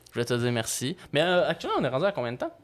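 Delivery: slightly slurred after tooth surgery; after wisdom teeth. Real, not acted. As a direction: speak with a sore, swollen mouth. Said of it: "je prononce comme de la merde, là, je me suis fait enlever mes dents de sagesse".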